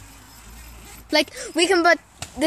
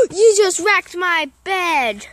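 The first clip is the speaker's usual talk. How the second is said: shocked; 2 semitones higher, 5 dB louder, slower than usual. Real, not acted. Gasps at wrecked bed.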